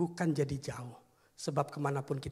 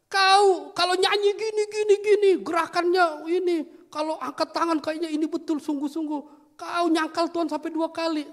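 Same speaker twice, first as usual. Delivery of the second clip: angry scolding; 14 semitones higher, 10 dB louder than usual. Acted. Pastor scolding the congregant for fake worship, loud tirade. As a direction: scold him point by point, loudly.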